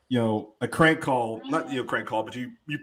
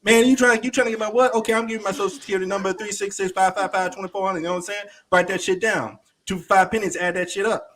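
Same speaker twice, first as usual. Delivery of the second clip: put-on street voice; 5 semitones higher than usual.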